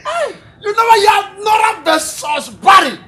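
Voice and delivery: high, loud outburst; loud exclaiming. Acted. Gossiping friend pressing for news, loud exclaiming.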